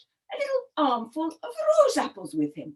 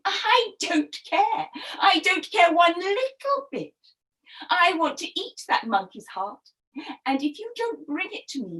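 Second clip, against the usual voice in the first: cross storybook wife, pitch lifted at first; petulant crocodile wife's demand; 4 semitones higher than usual. Acted. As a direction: dig in stubbornly. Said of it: "Missus Crocodile was very cross now".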